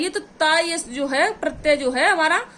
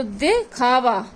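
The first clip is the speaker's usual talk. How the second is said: teacher drawing out दिखावा slowly; slowly drawn-out example word; 4 semitones lower, much slower than usual. Shown as a demonstration. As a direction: stretch दिखावा out slowly, each syllable clear. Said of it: "तोड़ो दिखावा".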